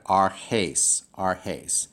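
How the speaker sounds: "arches" said as ar-HACE, in two parts; divided syllables. Shown as a demonstration. Teacher divides the Greek word, careful syllable by syllable. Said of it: "I would divide it".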